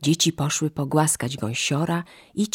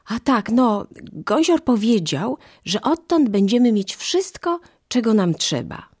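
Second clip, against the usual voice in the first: put-on high-pitched, eager children's cries; calling out excitedly; 6 semitones higher, 3 dB louder than usual. A narrator's reading. Children run to mother with news, calling excitedly. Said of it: "wołając".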